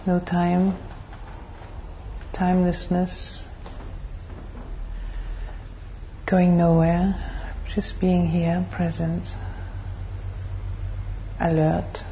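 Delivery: measured, even meditation guidance with long pauses; guided meditation. Real, not acted. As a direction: lead the group calmly into stillness, phrase by phrase.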